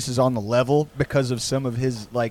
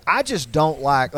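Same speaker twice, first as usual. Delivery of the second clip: put-on Texas accent. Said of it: "like, in a Texas accent".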